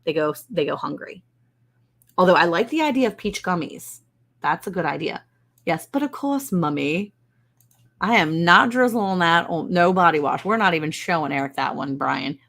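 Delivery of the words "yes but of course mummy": posh Mummy reply. Pretend. Child answering mummy, mock posh voice. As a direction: put on a fancy proper voice. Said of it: "that's what they have to say".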